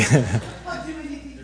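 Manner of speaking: amused, high-pitched laugh; real laugh. Real, not acted. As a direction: laugh at your own joke. Joking with the audience.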